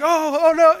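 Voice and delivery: mock panic, yelped high and loud; a kid's hammed-up "oh no" as he starts to sink; panicked yelp. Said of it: "You're not like".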